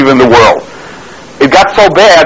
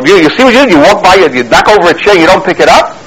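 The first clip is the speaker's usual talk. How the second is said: higher pitched telling-off, a touch louder; scolding loudly; 5 semitones higher than usual. Retold or imitated. Friend scolds the boy in front of everyone, raised voice. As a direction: scold the boy for leaving the chair. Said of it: "and he says loudly".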